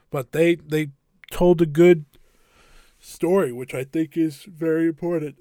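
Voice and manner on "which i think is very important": words stretched by a big yawn. Real, not acted. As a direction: talk through a real yawn. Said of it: "with the big yawn of the day".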